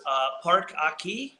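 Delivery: slow question in a put-on Spanish accent; imitated Spanish accent. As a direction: ask it slowly with a mock Spanish accent. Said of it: "can only do a Spanish accent".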